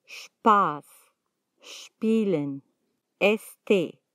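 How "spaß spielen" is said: Spaß, Spielen begun straight on "shp"; no E before SP. Shown as a demonstration. Teacher showing learners SP without an E, "shp" onset in Spaß, Spielen. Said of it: "Delante de la S P nunca se pronuncia una E".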